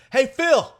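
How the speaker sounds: high, loud holler; imitated yell. Buddy hollering past him to someone behind, yelled. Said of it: "he yells, he's like".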